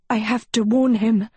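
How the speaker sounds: spluttering. A narrator's reading. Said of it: "Agatha spluttered".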